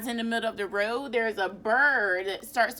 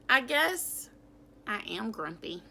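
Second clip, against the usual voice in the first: sighing. Acted. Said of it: "Jim sighed".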